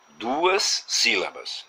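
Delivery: duas sílabas stretched very slowly, the s held long; teacher stretching the words; slow and drawn out. Shown as a demonstration. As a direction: spell it out slowly for the class. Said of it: "essa palavra teria".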